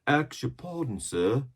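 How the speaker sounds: lightly voiced sailor; pirate crewman. A narrator's reading. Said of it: "returned one of the men".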